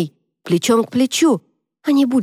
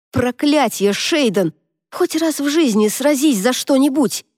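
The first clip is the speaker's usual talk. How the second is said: гневный окрик; 6 semitones higher than usual. Acted. Шейн кричит на брата.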